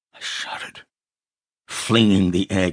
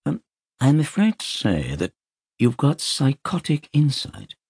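Harley Street consultant; 10 semitones higher than usual. Acted. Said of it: "the Harley Street consultant".

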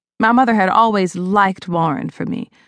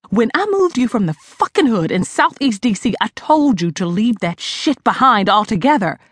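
chastising. Acted. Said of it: "I chastised".

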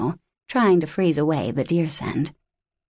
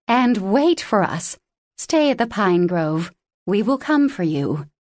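commanding; 3 semitones higher than usual. Acted. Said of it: "The command in the great wolf Frandra's voice was clear".

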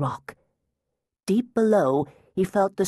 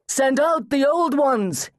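slow, higher and louder demand; loud cry; 9 semitones higher, 4 dB louder than usual. Acted. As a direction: call into the broken cave. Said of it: "he cried".

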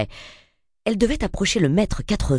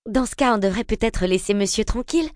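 voix douce; 7 semitones higher than usual. A narrator's reading. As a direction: gently suggest leaving him in peace. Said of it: "déclara une voix douce". (voix douce et légère)

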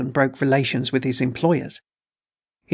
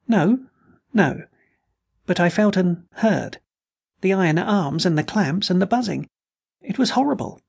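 higher and higher, panic building; rising hysteria; 5 semitones higher than usual. Acted. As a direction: terror climbing to a high cry. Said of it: "The girl's voice rose hysterically".

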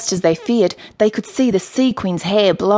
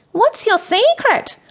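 high, drawn-out gushing question; fawning Michael; 13 semitones higher than usual. A narrator's reading. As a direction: ask it in a high, eager gush. Michael fawns over the queen.

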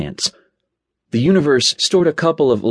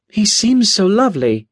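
client's voice; 8 semitones higher than usual. Acted. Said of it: "she said".

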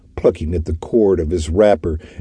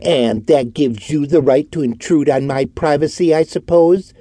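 higher, sarcastic sneer in a put-on voice; 8 semitones higher than usual. A narrator's reading. Orton mocking the detective's right to intrude, sarcastic. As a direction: lay on the sarcasm. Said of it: "continued Orton sarcastically".

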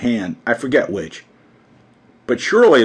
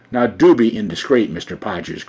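ordinary delivery, nothing marked

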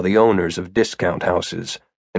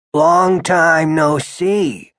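put-on slow, higher, drawn-out old man's greeting; stiffly affronted, drag out the words; indignant; 6 semitones higher, much slower than usual. A narrator's reading. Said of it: "His indignation made his voice rattle".

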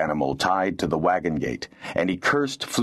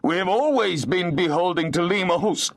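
high, sniveling protest; whiny, self-pitying plea; piteous snivel; 12 semitones higher than usual. A narrator's reading. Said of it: "sniveling and twisting his face into a piteous expression".

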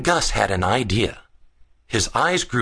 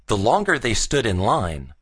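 ordinary delivery, nothing marked

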